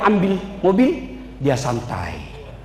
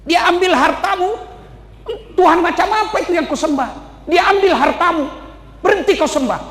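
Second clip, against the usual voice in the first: mocking tempter voice, higher and pushy; a lightly voiced devil goading Job; satan's taunt; 6 semitones higher than usual. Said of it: "Kata setan".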